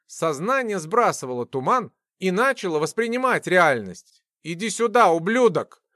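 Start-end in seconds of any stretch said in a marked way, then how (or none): 4.4-5.8 a mild angry growl, not truly roared; beastly growl. Acted. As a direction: threaten with a touch of menace. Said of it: "Голос Глеба перешёл в звериный рык".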